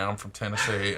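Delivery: imitating an old Tennessee accent; Southern accent. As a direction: say it with a light Southern twang. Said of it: "originally had a Southern accent".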